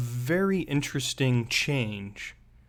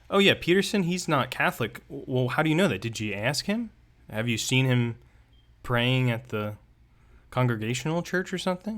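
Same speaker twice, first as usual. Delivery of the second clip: incredulous questioning. Pretend. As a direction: play the doubtful friend asking how he knows. Acted skeptical questioner.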